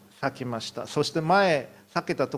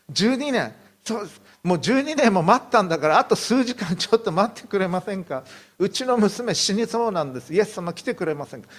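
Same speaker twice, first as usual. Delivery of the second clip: pleading father; 5 semitones higher than usual. Retold or imitated. Jairus begs Jesus to come, desperate pleading. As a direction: beg Jesus to hurry for your dying daughter.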